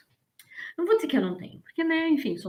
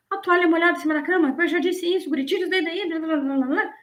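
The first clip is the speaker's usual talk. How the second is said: higher, quick nagging parent voice; 5 semitones higher than usual. Retold or imitated. Parent nagging a kid about a wet towel, higher and fast. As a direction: rattle off complaints like a fed-up mom. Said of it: "mãe e pai que fica".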